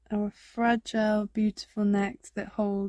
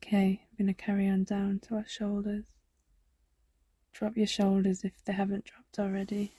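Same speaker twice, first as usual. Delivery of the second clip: soft unvoiced meditation whisper; 4 dB quieter than usual. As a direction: breathe the words out as a whisper. Meditation guide drops to whisper.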